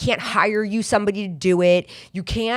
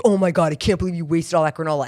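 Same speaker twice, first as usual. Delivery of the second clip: faster, put-upon husband voice; mock exasperated husband; faster than usual. Husband complaining about wasted granola, quick put-upon voice. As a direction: lightly voice the annoyed husband. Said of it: "he'll be like".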